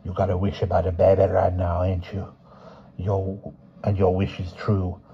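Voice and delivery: put-on quiet old fortune teller; old woman voice.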